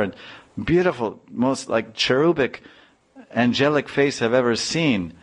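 a hint of a scolding wife; upset wife. Wife scolding her husband over the boy, upset.

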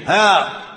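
sudden high angry "Ah!"; mock angry cry. Mother losing her temper at her son, mock angry. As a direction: burst out in mock anger. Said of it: "The mother gets angry".

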